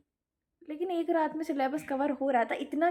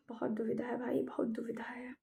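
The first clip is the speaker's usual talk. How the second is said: whispered dilemma; 7 dB quieter than usual. Real, not acted. Student whispering her attendance woes to viewers. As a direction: breathe it out like a sigh of defeat.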